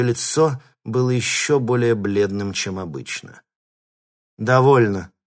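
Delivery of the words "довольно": louder, icy command; coldly. A narrator's reading. Mistress halting the thugs, cold and loud. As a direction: stop them with one cold word. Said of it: "холодно произнесла она".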